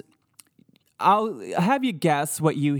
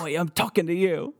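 mock British ghost; 3 semitones higher than usual. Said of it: "That is what they believe it says".

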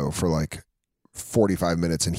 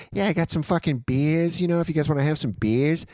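much higher, offhand host voice; imitating Bobby; 8 semitones higher than usual. Bobby offering beers to the guests, a much higher mock-casual voice. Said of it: "Bobby was like".

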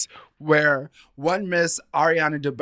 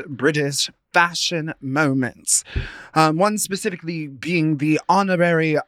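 mock British accent. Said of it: "I'm gonna stop with my accent".

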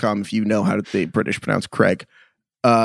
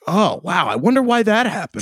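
feigned innocence; 7 semitones higher than usual. Retold or imitated. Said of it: "I'm like".

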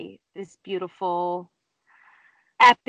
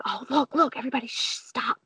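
retold hushed heads-up to the group; quietly stopping everyone to look; hushed excited alert; 3 semitones higher, 3 dB quieter, faster than usual. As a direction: hush everyone, softening toward "stop". Hushing group at horse sighting.

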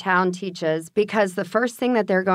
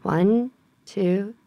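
slow breathing count, fading softer; counting slowly; 4 dB quieter, much slower than usual. Shown as a demonstration.

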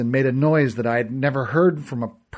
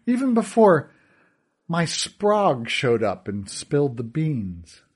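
higher, sneering villain voice; gloating villain; 4 semitones higher than usual. Acted. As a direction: toy with the boy, mock him.

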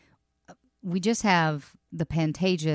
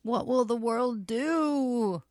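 mock lament; 4 semitones higher, much slower than usual.

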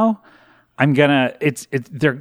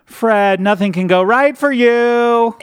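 exasperated; 5 semitones higher, 4 dB louder, slower than usual. Retold or imitated. Quoting inner despair.

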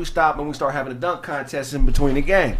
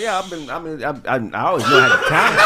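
mock flustered stammer; faster than usual. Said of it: "That nigga had you stuttering".

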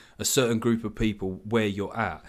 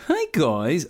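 lightly mimicked higher-pitched cheery greeting; chirpy greeting; 4 semitones higher than usual. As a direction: put on a high, cheery call of hello. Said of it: "he comes out of the little woods going".

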